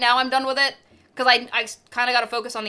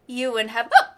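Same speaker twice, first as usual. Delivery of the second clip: hiccups; 2 semitones lower than usual. Real, not acted. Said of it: "sorry, hiccups".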